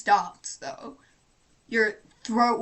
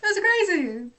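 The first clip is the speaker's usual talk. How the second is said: cracking up, high-pitched through the words; helpless laughter squeezing the voice high; real laughter; 11 semitones higher than usual. Real, not acted. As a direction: burst out laughing mid-sentence. Cracks up at friend's screaming story.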